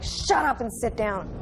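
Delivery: mild mock-angry command; understated imitation of a mad father; retold angry order. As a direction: tell a child off, retold with restrained anger. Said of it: "He was mad".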